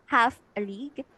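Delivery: "half a league" with the weight on "half"; strong beat on "half", lighter "a league"; first syllable stressed. Shown as a demonstration. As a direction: lean on "half", ease off on "a league". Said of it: "is stressed".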